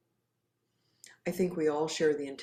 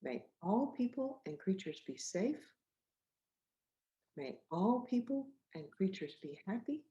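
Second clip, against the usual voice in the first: gentle recital; 3 semitones higher than usual. Shown as a demonstration. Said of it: "Can you say that".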